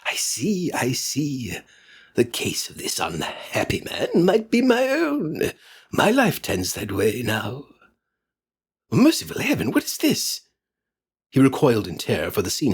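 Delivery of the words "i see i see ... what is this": put-on higher, trembling old miser; frightened Scrooge. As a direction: plead with the spirit in dread. Scrooge pleads in dread.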